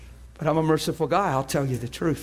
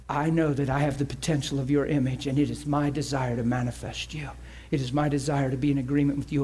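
quiet earnest prayer. Shown as a demonstration. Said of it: "You just tell him".

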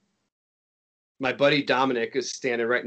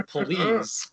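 pleading; 9 semitones higher than usual. Retold or imitated. Eager volunteer begging for the spot.

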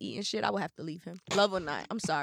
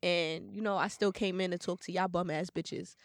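stuffy nose from being sick; blocked nose, sick and congested; 3 dB quieter than usual. Real, not acted. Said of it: "if I sound, like, a little congested".

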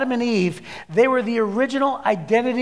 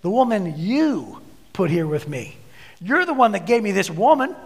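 accusing God. Retold or imitated. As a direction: lean on "you" to blame God. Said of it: "he's actually blaming God".

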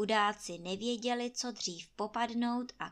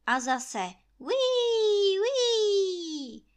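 slow, high, loud wind howl; 11 semitones higher, 8 dB louder, much slower than usual. A narrator's reading. Narrator making the wind howl over the yard, high and slow. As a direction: let the gust whistle long and high.

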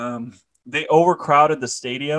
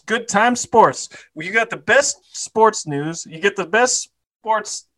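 hammed-up sponsor read; sports segment announcer; 6 semitones higher than usual. Host introducing Good Time Sports, mock announcer read. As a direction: improvise a playful sports promo.

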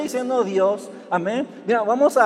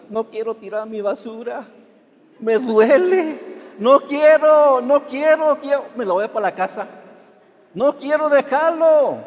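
hammed-up childish wail, higher and louder; mock crying; 5 semitones higher, 5 dB louder than usual. Preacher mocks a weeping child at the dump, hammed-up wail. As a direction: whine like a kid who won't let go.

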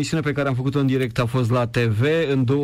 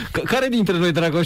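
laughing; 5 semitones higher than usual. Real, not acted. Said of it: "De ce râzi?".

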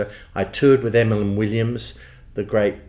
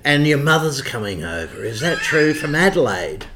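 higher, louder boss voice; imitating the boss; 6 semitones higher, 3 dB louder than usual. Boss asking about visiting mother, higher louder imitation. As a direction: put on his employer's booming query. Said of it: "So he'd speak like it".

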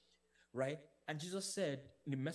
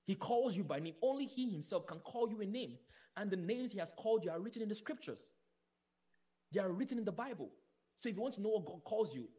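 raised, insistent preaching voice; emphatic preaching; 4 semitones higher, 3 dB louder than usual. Real, not acted. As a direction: drive each declaration home to the congregation. Preaches at fuller force.

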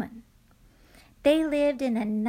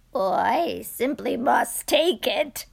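eager cry; 4 dB louder than usual. Acted. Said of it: "cried the very old man".

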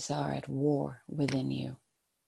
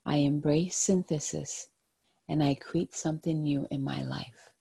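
soft spa whisper; 3 dB quieter than usual. Acted. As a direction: repeat it like a calming mantra. Repeating an affirmation three times.

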